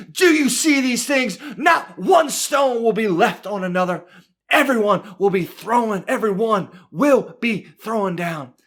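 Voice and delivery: emphatic, heated pronouncement; preacher acting a worked-up warning; fired up. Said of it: "fired up".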